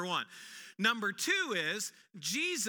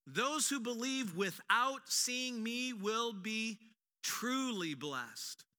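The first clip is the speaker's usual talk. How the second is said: gentle and slow; much slower than usual. Acted. Jesus closing words, read slowly.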